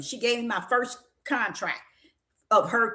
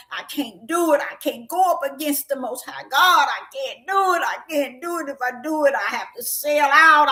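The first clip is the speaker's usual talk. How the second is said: imitating a distraught plea; lightly mimicked tearful insistence; crying; 2 semitones higher than usual. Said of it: "She was crying and she was like".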